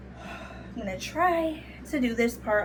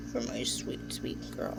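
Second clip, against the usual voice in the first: tender whisper; 9 semitones lower, 9 dB quieter than usual. Real, not acted. Tender words to pet.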